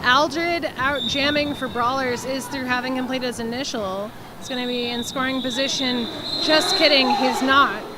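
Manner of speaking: lively live sports call; play-by-play commentary. Real, not acted. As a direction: follow the action as it happens.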